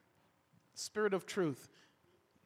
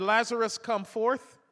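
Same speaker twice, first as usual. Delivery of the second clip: commanding call; 3 semitones higher, 4 dB louder than usual. Retold or imitated. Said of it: "if Jesus hadn't said".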